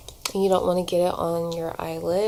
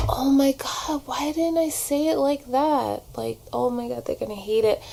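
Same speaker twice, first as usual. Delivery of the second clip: higher, fretting self-doubt; mock panicked self; 7 semitones higher than usual. To herself after sending an audition, mock panic. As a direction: replay the panic, a bit hammed-up. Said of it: "nervous and anxious about my auditions".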